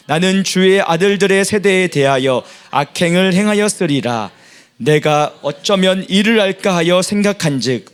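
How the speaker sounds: steady, measured reading aloud; scripture reading. Acted. Congregation reading scripture aloud together, measured. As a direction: read the psalm together, evenly.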